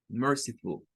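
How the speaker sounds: «merciful» con «ful» suave, tono descendente; final más suave. Shown as a demonstration. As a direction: suaviza la última sílaba de «merciful». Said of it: "es más suave". («merciful» con schwa final, sin fuerza)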